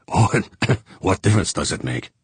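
talking through a cough. Acted. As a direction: push the words out between coughs. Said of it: "tried to bring his coughing under control".

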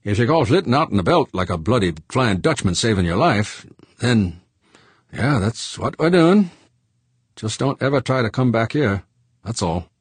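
George laying it out bluntly; gruff George. A narrator's reading. George's voice held.

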